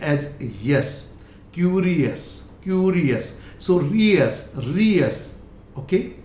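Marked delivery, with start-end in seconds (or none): 1.5-5.4 curious and rious ending in a light us; correct pronunciation. Shown as a demonstration. Teacher models it for learners, correct pronunciation. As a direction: end rious in ree-us, no y. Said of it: "I have written here as us".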